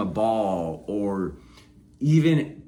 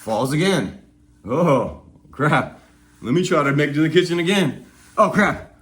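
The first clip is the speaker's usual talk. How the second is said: put-on playful toddler voice; 3 semitones higher than usual. A toddler falling on the way to the kitchen, light and playful. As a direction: play a toddler shrugging off falls. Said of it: "and they're like".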